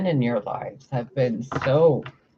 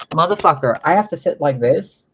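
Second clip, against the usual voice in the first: louder, exasperated venting; frustrated outburst; 2 semitones higher, 5 dB louder than usual. Real, not acted. Channeler venting to viewers about her tiny room, loud exasperation. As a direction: blow up at the camera setup.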